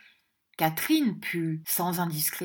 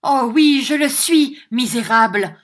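higher, louder pouty whine; sulky pouty tone; 6 semitones higher, 11 dB louder than usual. Acted. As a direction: sulk it out like a spoiled wife. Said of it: "d'un ton boudeur".

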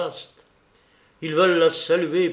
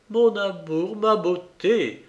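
higher, drawn-out tender sigh; sighing endearment; 5 semitones higher, slower than usual. A narrator's reading. Madame Dor embraces the bride, sighing tenderly. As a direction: sigh it lovingly, stretching the last words. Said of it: "soupirait la bonne dame".

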